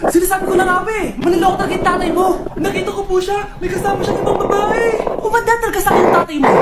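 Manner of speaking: fast furious ranting; angry rant. Acted. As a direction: rattle off the betrayal. Wife ranting about husband.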